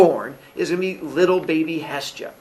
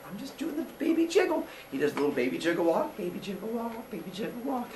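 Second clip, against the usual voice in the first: singsong jiggle; 3 semitones higher, 13 dB quieter than usual. Acted. Cronus jiggling baby, singsong.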